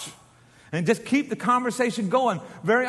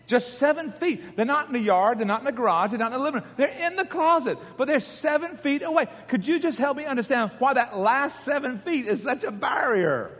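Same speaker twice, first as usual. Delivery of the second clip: mock exasperation; 5 semitones higher than usual. Mock exasperation over laundry.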